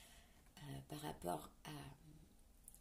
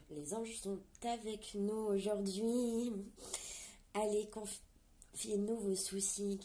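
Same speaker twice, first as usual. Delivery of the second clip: excited; 4 semitones higher, 6 dB louder, slower than usual. Real, not acted. Excited about angels' message.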